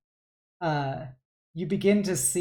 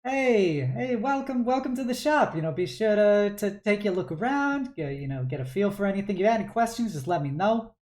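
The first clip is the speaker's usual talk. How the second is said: bright, higher welcoming shop voice; cheerful shopkeeper dad; 4 semitones higher, faster than usual. Acted. Dad welcoming a customer into his shop, higher and eager. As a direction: greet the customer warmly and eagerly. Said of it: "And you go".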